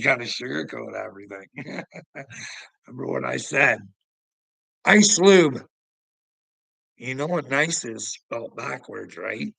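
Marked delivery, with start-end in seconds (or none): 4.8-5.7 loud call out. Real, not acted. Calling out to his homie.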